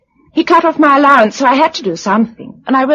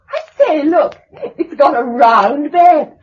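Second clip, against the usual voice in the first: surprised exclamation; 4 semitones higher than usual. Acted. Surprised at the round bed.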